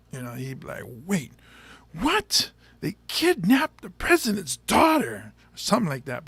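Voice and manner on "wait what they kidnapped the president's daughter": higher jump on what, slower after; hint of a dramatic thriller lead; action hero intensity. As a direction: play it like an action movie star. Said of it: "action drama".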